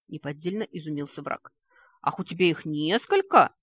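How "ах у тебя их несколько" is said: loud, indignant jab; angry indignation. Acted. Vik angrily mocks Tvan about his animals, loud. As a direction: throw the question back angrily. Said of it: "злобно возмутился Вик".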